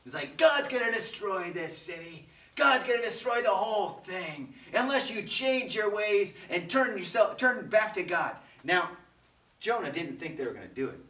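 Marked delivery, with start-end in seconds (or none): 0.4-8.3 raised, declaiming street-preacher voice; proclaimed warning. Acted. Jonah walking through Nineveh warning everyone, loud proclamation. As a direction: call it out to the whole city.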